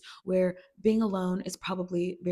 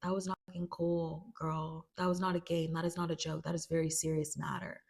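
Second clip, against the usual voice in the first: stern Fez; 2 semitones lower, 5 dB quieter than usual. Retold or imitated. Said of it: "Fez is like".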